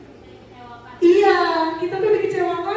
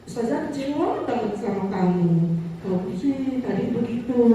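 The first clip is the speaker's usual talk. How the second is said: gentle guilt-tripping; 4 semitones lower than usual. Retold or imitated. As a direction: make the pupil feel guilty, gently. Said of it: "Nadanya lembut". (guru lembut tapi membuat murid merasa bersalah)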